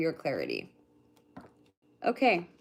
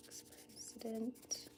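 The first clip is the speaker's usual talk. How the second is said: Ex-president whispered, much softer and slow; drawn-out whispered Ex-president; 18 dB quieter, much slower than usual. Shown as a demonstration.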